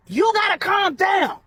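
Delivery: high, forceful yell, stretched out. A narrator's reading. Donovan to Portia as they tussle, forceful yell. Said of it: "Donovan yelled".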